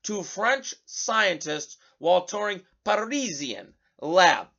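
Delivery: exaggerated, drawn-out French-accented headline read; mock French accent. Radio host mocking Kamala Harris to listeners, mock French accent. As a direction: ham up a fake French accent, slowly. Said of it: "panned for using French accent".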